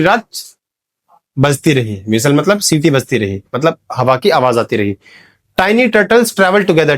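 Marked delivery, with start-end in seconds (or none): 5.6-7.0 each word drawn out slowly; slow example read. Shown as a demonstration. Teacher reads the example slowly to show the t sounds. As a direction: spell out the alliteration slowly. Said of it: "टी, टी, टी, टी आ गया".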